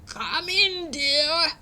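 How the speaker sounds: high, sugary snarl; a wolf trying to sound sweet; wolf's nicest voice. Acted. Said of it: "snarled the wolf in his nicest voice".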